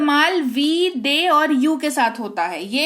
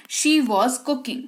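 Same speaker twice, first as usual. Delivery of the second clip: slow, even, word by word; slow model sentence; much slower than usual. Shown as a demonstration. Teacher modelling the English sentence slowly. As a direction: read it slowly so students follow. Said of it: "वह खाना बना रही थी".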